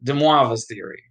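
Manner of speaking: lightly Italian-sounding "Demoivre's"; slightly Italian accent. Shown as a demonstration. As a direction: let a hint of Italian accent creep in. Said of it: "make it sound more and more Italian".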